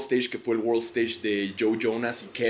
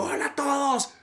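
much higher, bright emcee hello; stage host greeting; 14 semitones higher than usual. Retold or imitated. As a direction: greet a packed arena like a TV host. Greeting huge crowd on stage.

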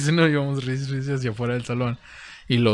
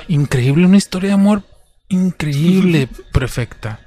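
gushing teacher; 6 semitones higher, 8 dB louder than usual. Retold or imitated. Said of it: "Lo dijo".

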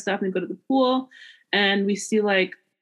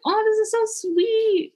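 high, teary gushing; crying while quoting; 12 semitones higher, slower than usual. Retold or imitated. Drunk friend gushing thanks at dinner, teary and high. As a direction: sob it out, overcome with drunk emotion. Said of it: "But I was crying".

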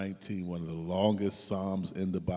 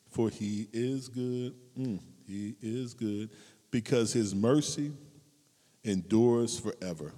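slow, drawn out reverent reading; preacher reading Psalm 118; slow scripture reading; slower than usual. Acted. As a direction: savour each word of the psalm. Reads psalm slowly.

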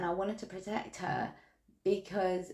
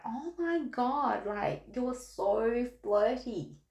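mock judgmental; 5 semitones higher, slower than usual. Mimicking her judgmental reaction.

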